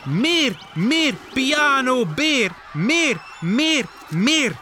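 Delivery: high, insistent chanting; calling out. Acted. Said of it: "alle dieren beginnen te roepen". (hoog en dringend roepen)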